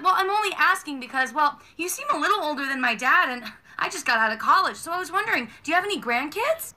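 mock innocent toddler; sweet customer service voice. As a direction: play dumb sweetly. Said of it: "customer service voice".

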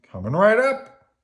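high, loud, eager shopkeeper; Bert. A narrator's reading. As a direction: sing out an order taken, pitch climbing. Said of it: "said Bert".

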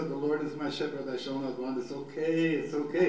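quick verse easing into lifted reassurance; reassuring self-talk. Shown as a demonstration. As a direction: talk yourself gently through the verse. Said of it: "You have to talk to yourself".

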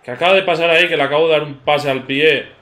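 loud, baffled outburst at the screen; what just happened, said loud and stunned; exasperated disbelief. Real, not acted. Confused by a game glitch. (incredulidad exasperada)

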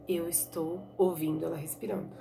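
low, soft hushed whisper. Acted. Blind boy whispering to Tonho that he hears it breathing. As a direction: breathe the words out quietly. Dalmo whispers about jaguar.

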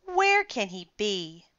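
playful whisper; stage-whisper as if hunting; pretend search. Danny pretends not to see the dinosaur, whispering.

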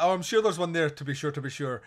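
imitating a very Irish kid; mock Irish accent. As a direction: put on a stock Irish brogue. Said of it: "That's how Irish he is".

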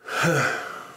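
heavy sigh out of breath; breathless sigh. Real, not acted. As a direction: let out a winded sigh. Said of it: "why am I out of breath?".

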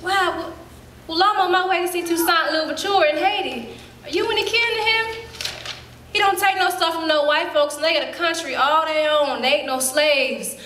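put-on high, eager girlish chatter; a young girl bragging; excited little girl. Eight-year-old girl excited.

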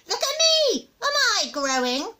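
high, loud challenge; high, crabby rhetorical question; indignant grandma. Acted. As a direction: demand it like a cross old woman. Grandma arguing with the boy.

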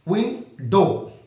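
slow উইন্ডো, broken into its two syllables; slow teacher demo of উইন্ডো in two parts; split into syllables. Shown as a demonstration. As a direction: say উইন্ডো slowly, one part at a time. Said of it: "উইন্ডো ভাঙা যাচ্ছে".

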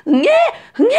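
two mock newborn wails; imitated baby cry. Shown as a demonstration. Demonstrating a baby crying while feeding, mock wailing. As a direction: wail briefly like a hungry newborn. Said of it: "울고 있는데".

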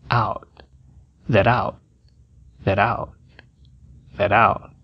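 out com o T preso no fim; T de out pausado. Shown as a demonstration. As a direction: pare no T de out sem soltar. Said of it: "é pausado". (o T final de out fica retido)

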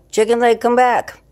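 loud, high call across the apartment; calling the cat. Real, not acted. Owner calling her wandering cat back, loud high call.

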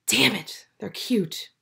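soft, whispered aside; whispered gush. Real, not acted. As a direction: breathe it out like a secret. Gushing aside about the couple.

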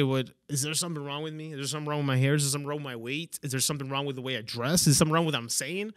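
quick, hushed string of worried questions; self-doubting questions. Acted. Person taking a hater's comment personally, softly self-questioning. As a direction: fire off insecure questions softly and fast.

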